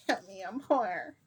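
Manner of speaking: mildly pleading, put-on cry for help; mock plea. Begging for help as a joke, mild mock plea. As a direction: beg in jest, holding back.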